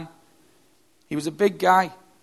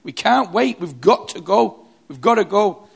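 loud, higher insistence to leave; urgent call; 4 semitones higher, 6 dB louder than usual. Retold or imitated. Other survivor urging them to abandon the man, loud and urgent. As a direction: press them to go now, loudly. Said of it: "the other man saying to this guy in the middle".

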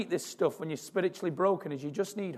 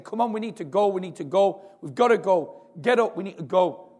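urging a frozen man to get up, pressing and a little louder; urgent plea; 2 semitones higher, 4 dB louder than usual. Retold or imitated. South Korean man urging the man who gave up to move, pressing. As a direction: push him to move, it's now or never. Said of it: "The South Korean guy saying".

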